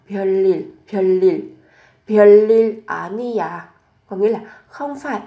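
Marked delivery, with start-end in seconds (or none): 0.1-1.4 별일 said loudly with a doubled l, as byeol-lil; sound change. Shown as a demonstration. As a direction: model 별일 clearly, adding an l before the second vowel. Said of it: "Biến âm".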